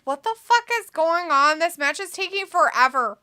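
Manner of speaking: loud put-on complaint; mock annoyed viewer. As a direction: read it as an annoyed fan. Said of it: "Robbie's like".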